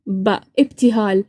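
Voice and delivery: "باء، ابتهال" with a voiced b, taken slowly; Arabic B sound. Shown as a demonstration. Showing the Arabic letter, "باء، ابتهال" slow with a voiced b. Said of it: "عندنا حرف الباء".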